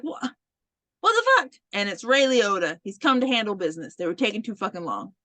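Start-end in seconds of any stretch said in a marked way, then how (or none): 0.0-1.5 much higher and louder, a stunned what the fuck; shocked outburst. Retold or imitated. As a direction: blurt it out in disbelief. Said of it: "And they're like".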